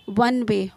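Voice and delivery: "वन वे" said clearly with an opening w sound; w sound demonstrated. Shown as a demonstration. Teacher showing learners the sound, clear w in "वन वे". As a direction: sound out the व that starts "वन". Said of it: "व की sound है".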